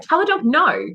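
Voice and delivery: lightly voiced trainer giving an order; trainer's instruction. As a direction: instruct the handler plainly. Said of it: "the trainer will be like".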